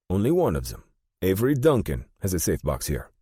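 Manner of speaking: put-on formal German-accented reply. A narrator's reading. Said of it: "In a noticeable German accent".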